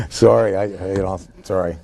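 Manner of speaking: fighting back laughter while apologizing; stifled giggles. Real, not acted. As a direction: giggle slips through, trying to hold it in. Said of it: "I'm trying not to la".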